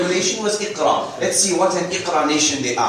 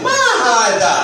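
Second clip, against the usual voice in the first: "ما هذا" as a raised, emphatic question; question intonation; 6 semitones higher, 4 dB louder, much faster than usual. Shown as a demonstration. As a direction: ask "ما هذا" high, like a real question. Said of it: "Say it like you made a question".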